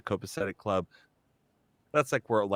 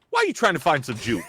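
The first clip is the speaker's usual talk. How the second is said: lightly voiced questioning store worker, quick and higher; Walmart lady; 5 semitones higher, 3 dB louder, faster than usual. Store worker questions a customer, lightly imitated puzzlement. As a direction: imitate a puzzled clerk, speeding up. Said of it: "And she goes".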